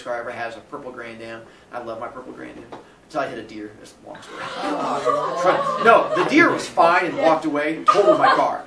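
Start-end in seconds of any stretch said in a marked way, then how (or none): 4.4-8.6 laughing through the words; real laughter bubbling up while telling it; laughing at his own bad luck. Real, not acted. Laughing about the deer crash.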